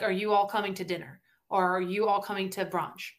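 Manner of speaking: careful Northern US pronunciation, "you" and "all" kept apart. Acted. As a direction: say "you all" as two full words, Northern style. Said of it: "if we're from the North, they say you all".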